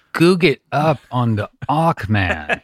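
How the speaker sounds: slow, stretched comedian impression; Dennis Miller. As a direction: lightly imitate a wry comic's cadence. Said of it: "impression of Dennis Miller".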